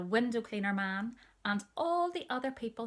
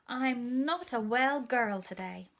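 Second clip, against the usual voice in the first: higher, slow, pitiful; poorly child; 4 semitones higher, 5 dB louder, slower than usual. Acted. Little sister answering the window cleaner, slow and pitiful. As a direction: make yourself sound poorly.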